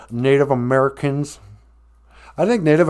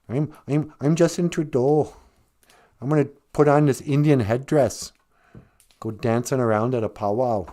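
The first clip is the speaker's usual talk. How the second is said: lightly voiced Canadian politician; half-hearted mock Canadian accent; Justin Trudeau; 2 semitones higher than usual. Politician boasting to hosers about dressing up, rough Canadian accent. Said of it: "I can't really do it that well".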